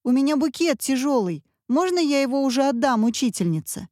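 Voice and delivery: put-on high pleading child; whiny child. A narrator's reading. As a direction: complain like a tired kid. Мальчик жалуется маме. (мальчик ноет маме, выше)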